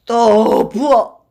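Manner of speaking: slow, loud drawn-out demand. Acted. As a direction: stretch the order out, satisfied. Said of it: "라고 외쳤다".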